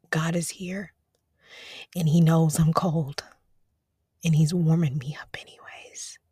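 hushed, reverent whisper; breathy worshipful whisper; awed whisper. Real, not acted. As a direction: whisper it like a secret of grace. Whispers praise in awe.

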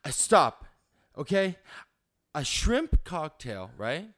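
entitled Karen berating the waiter; Karen customer. Acted. Customer to waiter: entitled Karen rant. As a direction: demand the manager, cutting him off. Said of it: "we're gonna learn how to Karen".

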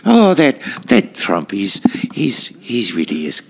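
lightly voiced nanny impression; a hint of Mrs. Doubtfire. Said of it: "you're doing your Missus Doubtfire voice".

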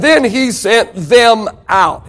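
slow, with weight on "them"; stress on THEM. Real, not acted. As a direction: lean on "them" to show who was sent. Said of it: "He said who?".

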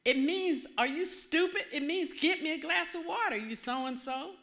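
loud, scornful snap; mock his contempt at full volume; irritated father. Mean father snapping at his daughter, loud and scornful. Voicing her father's insult.

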